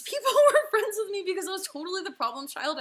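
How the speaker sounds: high laugh mid-sentence. Real, not acted. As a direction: laugh through the words. Laughing at herself.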